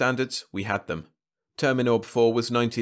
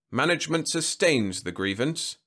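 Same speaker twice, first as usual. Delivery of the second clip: incredulous drone; 6 semitones higher than usual. A narrator's reading. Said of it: "Tichnat droned incredulously".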